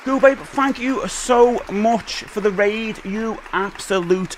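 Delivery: high, slow hissing creature voice; Gollum voice. Acted. Streamer thanks raider Go Babe in a high, slow Gollum voice. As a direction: drag it out like Gollum. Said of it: "I'm trying to do a Gollum voice".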